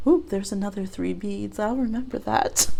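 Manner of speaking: quiet, creepy tallying; creepy grudge voice. Retold or imitated. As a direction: mark it down with quiet menace. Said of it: "Just all creepy".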